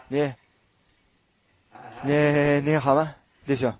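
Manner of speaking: halting, shamefaced 你 你 greeting; guilty stammer. Shown as a demonstration. Preacher acting out a guilty sinner greeting brothers, stammering. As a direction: stumble over the words like a guilty man. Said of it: "那我就结结巴巴的".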